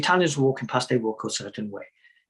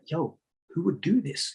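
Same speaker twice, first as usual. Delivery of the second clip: street slang; 5 semitones higher, 4 dB quieter, slower than usual. Retold or imitated. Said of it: "all of a sudden I just went all like".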